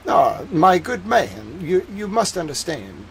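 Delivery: imitated Boston Brahmin that comes out Southern; Boston Brahmin accent. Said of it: "like, a Boston Brahmin".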